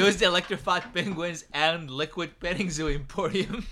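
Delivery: infomercial. Retold or imitated. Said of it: "The infomercial guys always sound like".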